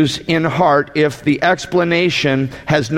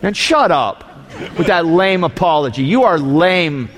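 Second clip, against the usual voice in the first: scornful scolding. Real, not acted. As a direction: sneer at the lame apology. Preacher mocking lame apology.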